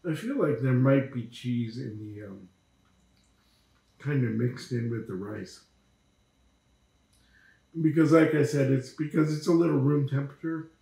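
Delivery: words between bites of burrito; talking while chewing. Real, not acted. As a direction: mouth partly full of food. Seen 2: Holds burrito, jaw and cheeks show chewing between words throughout.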